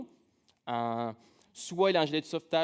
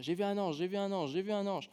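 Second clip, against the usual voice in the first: put-on excited child; 4 semitones higher than usual. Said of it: "a couru voir ses parents pour leur dire".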